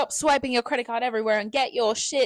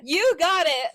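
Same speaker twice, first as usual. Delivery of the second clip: laughing; 7 semitones higher, 6 dB louder, slower than usual. Retold or imitated. Echoing Dora's line.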